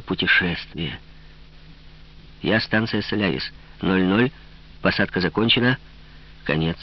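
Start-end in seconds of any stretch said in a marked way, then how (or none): 2.4-6.8 flat, toneless machine announcement, lightly voiced; lifeless robot voice. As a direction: read it like an empty station robot with a hint of monotone. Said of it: "безжизненный голос робота".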